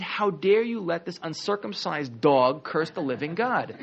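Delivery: high, slow, indignant challenge; hammed-up righteous outrage, drawn out; retold outrage. Teacher voicing shocked young David at Goliath's insults, mock outrage. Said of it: "he's outraged".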